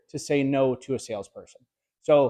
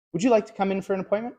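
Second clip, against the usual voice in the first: higher, faster eager plea, asking a favor; needy asking; 5 semitones higher, faster than usual. Shown as a demonstration. Salesman on the phone pleading with a client for a visit. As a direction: sound like you're begging a favor. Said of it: "You can even hear it in my tonality".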